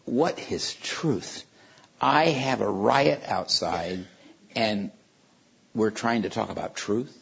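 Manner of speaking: slow, weary exasperation at the question; exasperated. Retold or imitated. Pilate, harassed by the riot, exasperated and weary. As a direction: sigh it out, fed up with the riot outside. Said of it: "that's maybe more what the mood was".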